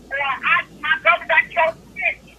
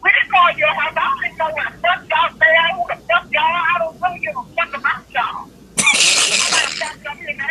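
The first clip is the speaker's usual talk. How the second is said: angry phone rant; 3 dB louder than usual. Real, not acted. Caller yelling on phone.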